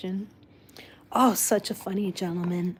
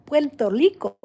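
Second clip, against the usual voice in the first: imitating grandparents' Puerto Rican accent, R said as an L, "Puerto Rico" as "Puerto Lico", higher and louder; 5 semitones higher, 5 dB louder than usual. Fond granddaughter imitating her Puerto Rican grandparents' R as an L. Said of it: "it was actually a L".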